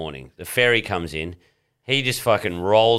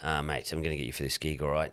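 low serious voice; 4 semitones lower, 10 dB quieter, faster than usual. Retold or imitated. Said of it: "He's like".

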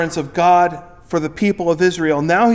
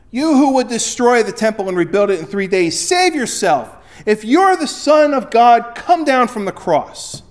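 mocking taunt; 5 semitones higher, 3 dB louder than usual. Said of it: "derided him".

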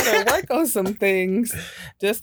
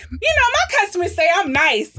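mock quote; 11 semitones higher, 5 dB louder than usual. Quoting text message mockingly.

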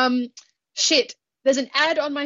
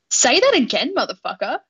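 mock threat; 2 semitones higher, 4 dB louder than usual. Host challenges co-host who insulted Sir David, mock threatening. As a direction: dare them to repeat it, playfully menacing.

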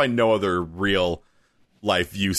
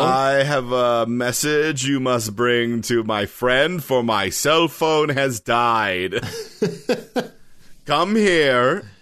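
hammy stage actor; 2 semitones higher, much slower than usual. Pretend.

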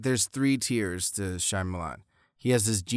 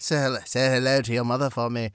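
put-on retry Boston accent; faster than usual. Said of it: "Slipping accents is really".

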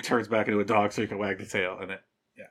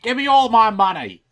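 demanding shout; 11 semitones higher, 8 dB louder than usual. Retold or imitated. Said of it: "just be like".

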